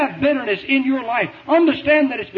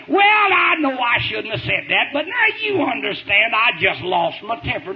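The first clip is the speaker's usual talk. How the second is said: apologetic excuse. Retold or imitated. Preacher mimics churchgoers excusing their temper, mock apologetic. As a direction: imitate someone lightly pleading not responsible. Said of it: "an apologetic intonation in your voice".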